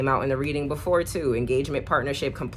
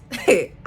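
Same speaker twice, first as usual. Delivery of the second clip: laugh; 6 semitones higher, 7 dB louder than usual. Real, not acted. Laughs at own line.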